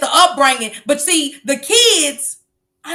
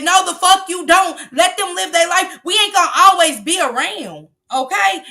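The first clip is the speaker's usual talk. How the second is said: loud, angry telling-off; shouting; 7 semitones higher, 4 dB louder than usual. Real, not acted. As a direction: yell it at the parents. Scolding parents, shouting.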